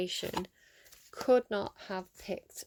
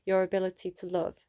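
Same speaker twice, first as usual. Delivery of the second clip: card reading voice. Acted. Reader sharing an oracle card with her viewers, gently read.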